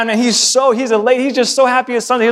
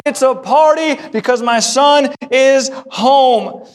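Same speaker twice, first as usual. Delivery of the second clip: a bit higher and brighter, eager party call; a father overjoyed his son is back; excited father; 4 semitones higher than usual. Pretend. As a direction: round up the servants with joy. Father calling servants to party.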